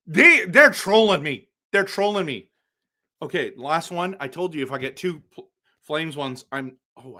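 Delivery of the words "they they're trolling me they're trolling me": loud exasperated outburst; outraged. Real, not acted. Streamer yelling at the pack that's trolling him, loud. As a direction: blurt it out, fed up and loud.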